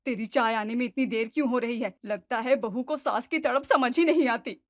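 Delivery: mock-annoyed mother-in-law calling out; irritated. Mother-in-law irritated at waiting for tea, mild annoyed call. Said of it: "झल्लाकर कहती हैं".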